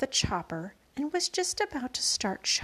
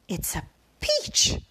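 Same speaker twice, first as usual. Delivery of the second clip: slow, louder announcement; shouting; 2 semitones lower, 5 dB louder than usual. A narrator's reading. Aunt Spiker telling Sponge about the peach, loud. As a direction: proclaim the discovery. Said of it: "Aunt Spiker was shouting".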